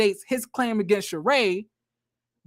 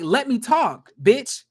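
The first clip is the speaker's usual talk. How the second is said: mock angry snap; 3 semitones higher, slower than usual. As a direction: snap it at her like Sheree cutting in. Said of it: "she's like".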